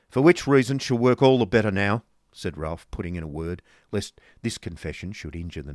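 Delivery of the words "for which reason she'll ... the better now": loud, raised voice; brusque businessman. Acted. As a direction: cut in loudly to get down to business. Ralph cuts in on the negotiation.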